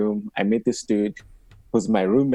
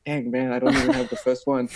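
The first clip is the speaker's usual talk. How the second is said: laughing; 13 semitones higher than usual. Retold or imitated. Joking reaction about wives.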